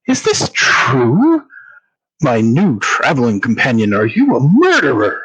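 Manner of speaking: taken aback, stretching out the question; shocked gasp. Acted. Townsman learns his companion may be a murderer, mildly shocked. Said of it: "puts a hand to his chest and gasps".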